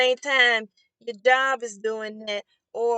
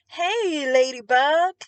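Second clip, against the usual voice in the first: imitating a forced, higher sing-song hello; mock the bright greeting that hides a bad day; fake chipper greeting; 4 semitones higher, 3 dB louder, slower than usual. Upset cashier faking cheer to a regular customer, mock sing-song chipper. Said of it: "trying to act all jipper".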